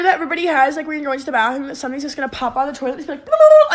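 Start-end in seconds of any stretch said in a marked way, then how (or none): 3.2-3.7 monster roar. Pretend. Toilet monster popping out.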